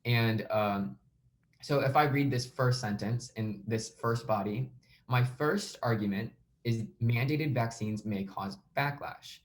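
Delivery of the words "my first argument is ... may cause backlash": teacher demo stressing "backlash". Shown as a demonstration. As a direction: lean on "backlash" and "first". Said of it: "So I'm trying to emphasize backlash".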